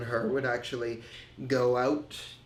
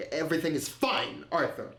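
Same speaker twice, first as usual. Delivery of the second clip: mildly higher self-reassurance; convincing himself; 3 semitones higher than usual. Retold or imitated. Man telling himself his drinking is fine, self-convincing. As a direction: talk yourself into believing it. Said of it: "I just convinced myself".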